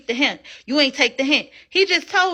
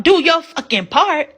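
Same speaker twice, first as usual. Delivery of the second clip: slow, louder, every word hit; exasperated snap; 5 dB louder, slower than usual. Real, not acted. Host firing back at the woman she just mimicked, slow and loud. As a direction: lay down the law, fed up.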